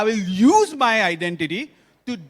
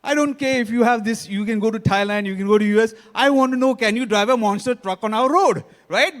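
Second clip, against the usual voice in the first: lightly voiced traffic constable; 3 semitones higher, 5 dB louder than usual. Traffic constable questioning a passport holder, lightly acted challenge. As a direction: lightly act an officer dismissing a document. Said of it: "constable or police, he say".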